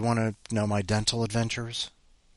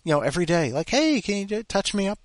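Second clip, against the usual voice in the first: much higher, amazed self-mockery; flabbergasted; 9 semitones higher than usual. Realizing the dentist is across the street, flabbergasted. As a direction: gush it in disbelief. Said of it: "I was so flabbergasted".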